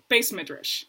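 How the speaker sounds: "Beis Midrash" with an S in Ashkenazi style; Ashkenazi pronunciation. Retold or imitated. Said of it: "Shlomi says".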